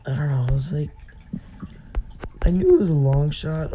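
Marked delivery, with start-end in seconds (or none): 2.4-3.7 voice cracking. Real, not acted. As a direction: voice cracks mid-sentence. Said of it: "Oh my gosh, my voice just cracked".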